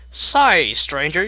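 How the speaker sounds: loud suspicious country voice; suspicious drawl. Acted. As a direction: call out like a cowgirl. Applejack confronting stranger.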